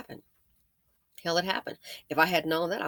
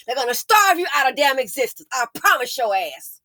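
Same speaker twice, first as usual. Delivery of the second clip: real fed-up, raised-voice rant; real anger, punching the hard words; angry yelling. Real, not acted. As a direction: hammer out a furious warning. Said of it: "I don't mean to talk like that and yell".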